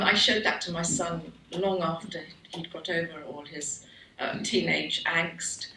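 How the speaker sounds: usual speaking voice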